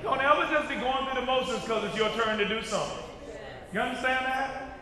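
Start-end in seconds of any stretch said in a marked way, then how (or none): 0.0-3.1 fast run-through of the line; brisk repeat. Shown as a demonstration. Preacher repeating the warning to the church, quickly. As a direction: rattle it off quick.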